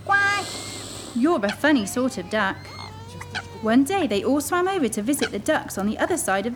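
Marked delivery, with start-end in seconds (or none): 0.0-2.6 lightly voiced puzzled mother duck; a mild head-shaking mother. Mother duck telling her odd chick, lightly puzzled. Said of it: "she said".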